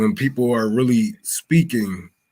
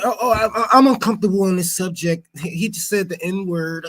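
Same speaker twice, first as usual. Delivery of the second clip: 1 mocking offended viewer; 5 semitones higher than usual.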